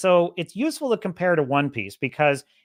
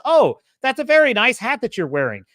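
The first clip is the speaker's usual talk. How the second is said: higher, louder mock improv line; improv opener; 4 semitones higher, 5 dB louder than usual. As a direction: play a chirpy scene partner offering a premise. Acting an improv sketch opener.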